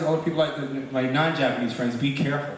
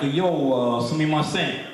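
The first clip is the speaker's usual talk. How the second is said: put-on Japanese in a Brooklyn accent; light Brooklyn-accented Japanese; slower than usual. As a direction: play a Brooklyn kid speaking Japanese. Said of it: "they have this Brooklyn accent".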